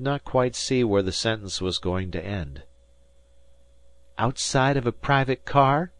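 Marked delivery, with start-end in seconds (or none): 4.2-5.9 wickedly. A narrator's reading. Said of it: "suggested Dan wickedly".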